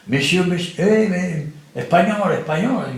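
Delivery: imitated feeble call. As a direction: call out like a man too weak to stand.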